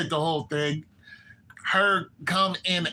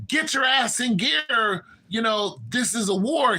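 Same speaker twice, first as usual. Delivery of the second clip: mock angry yell; 6 semitones higher than usual. Brother pushing his sister to ride her dragon, mock angry shout. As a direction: push her into the war with a half-acted shout.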